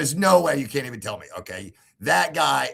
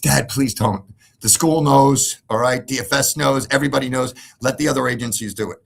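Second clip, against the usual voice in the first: pleading daughter; 6 dB louder than usual. Retold or imitated. Daughter's plea quoted.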